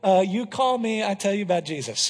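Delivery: put-on a light Honduran Spanish accent, a bit fast; imitating Israel's Honduran English, quick and plain. Pastor imitating translator Israel's radio call, light Honduran accent. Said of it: "I'm speaking like Israel".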